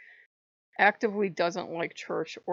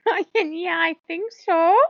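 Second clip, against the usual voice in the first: high, loud words through real laughter; laughing; 9 semitones higher, 9 dB louder than usual. Real, not acted. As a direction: answer while cracking up. Laughing while guessing he'd frown.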